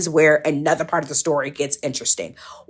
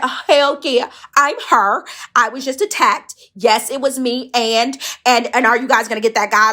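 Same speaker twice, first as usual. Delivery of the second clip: rambling excitedly; 6 semitones higher than usual. Retold or imitated. To the cop, high excited rambling. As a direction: gush out the words to the cops. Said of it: "Like, I'm just talking".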